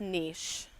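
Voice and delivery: "niche" with a long ee and a sh ending; niche pronounced neesh. Shown as a demonstration. Showing viewers how Eric pronounces it, "niche" as neesh. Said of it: "he says this is pronounced niche".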